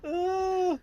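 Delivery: high, loud wordless "uh"; loud high groan. Real, not acted. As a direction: let out a loud high noise. Lone high loud noise after laughing.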